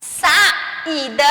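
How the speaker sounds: "saída" with a strong, long í. Shown as a demonstration. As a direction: lean on the í in "saída". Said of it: "O I bem forte". ("saída" com o "í" bem forte)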